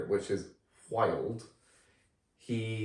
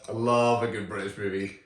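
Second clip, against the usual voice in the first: put-on British accent; 5 dB louder than usual. Podcast host opening a film review, mock British accent. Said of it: "I'll do my best British accent".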